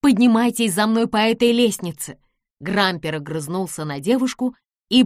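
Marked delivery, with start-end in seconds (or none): 0.0-2.2 loud, higher urgent order; exclaimed. A narrator's reading. Nancy calls the men up the stairs, exclaiming. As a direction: call them urgently to follow. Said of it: "воскликнула Нэнси".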